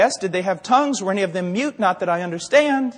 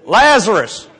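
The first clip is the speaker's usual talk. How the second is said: loud command toward a tomb; hammed-up, forceful call; mock summons; 6 dB louder, slower than usual. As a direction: try to call a dead man out. Second try at the tomb.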